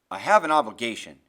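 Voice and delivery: low, firm, forceful husband. A narrator's reading. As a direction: state your duty firmly without yelling. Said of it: "Grim's voice isn't nearly as loud".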